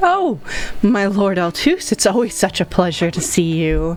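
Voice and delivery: swooping, sing-song voice, pitch swinging all over the place. Voicing the dressmaker Stacy greeting a returning customer: Stacy the dressmaker's voice. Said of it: "And she's just like".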